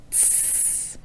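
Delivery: tss, a T bursting into a hiss; short T into S hiss; exploding T. Shown as a demonstration. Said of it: "good S sound after the T".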